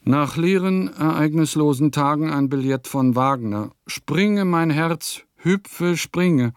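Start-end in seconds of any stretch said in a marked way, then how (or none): 3.9-6.5 higher, bright leaping joy over a letter; joyful outburst. Acted. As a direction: let the heart jump in the voice. Joyful reaction to Wagner's note.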